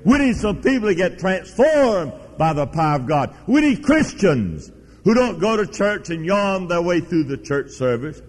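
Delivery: high, emphatic pulpit proclamation; fervent preaching. Real, not acted. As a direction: proclaim it with force, stretching the key words. Preacher exhorts the congregation.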